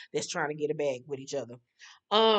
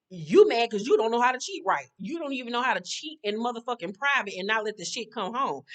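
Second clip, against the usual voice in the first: scolding rant; 3 semitones higher than usual. Real, not acted. Scolding the cheating boyfriend.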